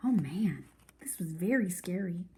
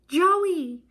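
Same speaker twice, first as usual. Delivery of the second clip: higher, louder call across the house; 9 semitones higher, 7 dB louder than usual. A narrator's reading. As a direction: shout her name to bring her back. Kenny calls his sister back.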